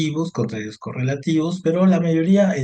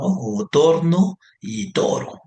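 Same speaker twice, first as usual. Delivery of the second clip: drawn out, a bit louder; slow example words; 4 semitones higher, 3 dB louder, slower than usual. Shown as a demonstration. Teacher contrasting near-identical words, slowly. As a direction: stretch both words to show the likeness. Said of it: "solamente se medio parece".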